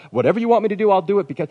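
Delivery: high, forceful, devoted volunteering; eager willingness. Acted. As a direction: jump at the chance to serve the boss. Acts eager employee to boss.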